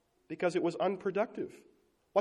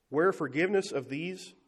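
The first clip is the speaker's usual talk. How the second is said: misread line. Real, not acted. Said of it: "or where is forgiveness of these".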